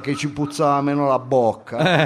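lightly voiced slangy student; brash student character. Student telling of a concert kiss, brash character. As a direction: boast like a cheeky street kid. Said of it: "Devo entrare nel personaggio".

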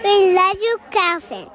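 put-on loud child repeating the line. Shown as a demonstration. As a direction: say it back out loud. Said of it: "Say, say".

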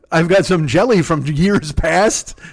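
slow, grand offer; hammed-up stately menu reveal; mock ominous host. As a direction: draw it out like a creepy posh host. Acts out host offering aged jelly.

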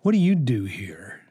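put-on flat, bored teen whisper; deadpan, uninterested, almost whispered; monotone voice. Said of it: "monotone voice".

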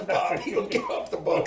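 high, voiceless squeeze of laughter on a retold order; mock helpless laughter; imitating crying with laughter. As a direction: act out someone laughing too hard to talk. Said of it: "he's just crying".

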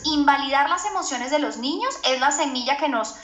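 normal talking voice

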